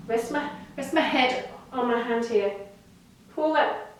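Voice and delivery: muffled, talking into the floor; face down on the floor. Real, not acted. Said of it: "sorry, I'm talking to the floor".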